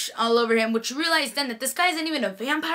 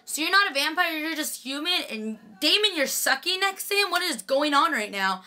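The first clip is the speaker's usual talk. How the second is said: higher, baffled questioning; incredulous; 4 semitones higher than usual. Retold or imitated. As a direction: demand answers in disbelief. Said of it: "And I'm like".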